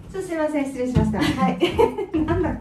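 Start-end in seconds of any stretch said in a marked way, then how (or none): 1.6-2.2 short, high giggle falling away. Real, not acted. Host restarting after the spider fuss, leftover giggle. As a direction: let out a brief leftover laugh. Composing herself after the interruption.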